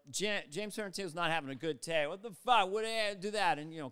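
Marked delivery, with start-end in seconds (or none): 2.1-3.6 angry outburst. Retold or imitated. Actor having a bad day.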